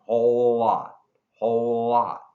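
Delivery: whole lot joined, one l sound; whole lot as one word, no gap; linked whole lot. Shown as a demonstration. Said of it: "we have that linking".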